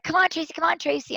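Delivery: mock friendly call to a teammate. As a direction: call her over to the race. Sailors calling her to race.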